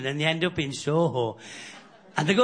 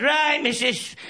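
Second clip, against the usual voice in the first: a lightly raised, hammed-up bill collector voice; mock gas man threat; 6 semitones higher than usual. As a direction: bluff it out like a cocky gas man caught in the act. Lad pretends to be gas man.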